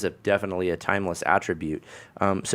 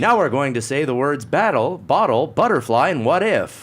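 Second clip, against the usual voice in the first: high, loud, sing-song tape presenter; dialect-tape instructor; 6 semitones higher, 5 dB louder than usual. Retold or imitated. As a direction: imitate the host announcing practice words. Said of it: "the guy comes on and he says".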